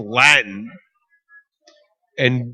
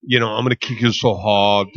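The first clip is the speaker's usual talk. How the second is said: put-on Austrian accent; 4 semitones lower than usual. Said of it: "I'm doing an Austrian accent".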